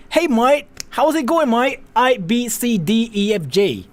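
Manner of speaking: lightly put-on Australian, "mate" said as "mite"; a mild mock Aussie greeting; Australian accent. Streamer showing how he once tried to sound Australian, lightly put-on Australian accent. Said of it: "I tried to sound Australian".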